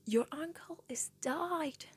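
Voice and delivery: a hint of mom blurting it out; retold scream. Mom blurting the news in her face, mild mock yell. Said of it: "screamed in my face".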